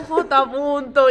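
slow loud call. Retold or imitated. Amigo vuelve a llamar a J punto, llamada lenta y alargada. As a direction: stretch the name out as a long call. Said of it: "se fue bajando la intensidad".

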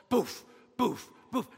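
spoken boof of falling boulders; imitated impact thuds. Preacher acts out huge boulders hurled at Stephen, imitated thuds. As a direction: mimic heavy stones landing, short puffed bursts.

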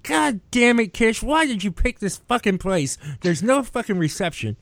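high-pitched exasperated griping, easing down; retold irritation. Waiting friend cursing the lunch spot with no signal, irritated. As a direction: act out griping at an absent friend. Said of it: "I'm getting kinda irritated".

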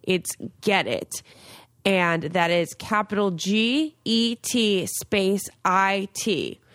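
upbeat sponsor read. Acted. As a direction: sell it like a host ad. Sponsor read for acne product.

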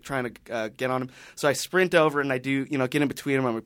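normal talking voice

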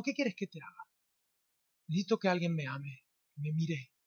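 soft, heartfelt question and answer; hushed, intimate exchange. Acted. Jesus asking, a person needing love answering, hushed. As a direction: let it sink into a quiet confession.

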